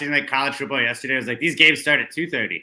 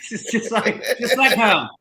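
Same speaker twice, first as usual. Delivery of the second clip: much higher British lilt with a laugh; 10 semitones higher, 4 dB louder than usual. Pretend. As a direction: giggle through a put-on English accent. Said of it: "back at the pub in jolly old England".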